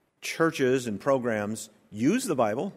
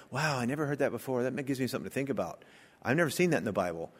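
impressed churchgoer; 7 dB quieter, much faster than usual. Retold or imitated. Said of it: "People shouldn't go away saying".

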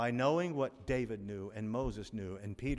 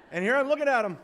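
laughing out loud, higher and louder; delighted laugh at the memory; 11 semitones higher, 10 dB louder, faster than usual. Real, not acted. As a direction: burst into laughter mid-sentence. Laughs recalling a singer.

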